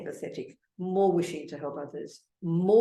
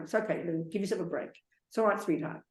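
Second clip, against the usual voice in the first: softer, kind words to yourself; tender self-talk; 4 dB quieter, faster than usual. Shown as a demonstration. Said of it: "Kind of yourself".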